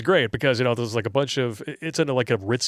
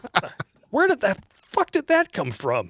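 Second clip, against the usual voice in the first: mock bewildered; 9 semitones higher than usual.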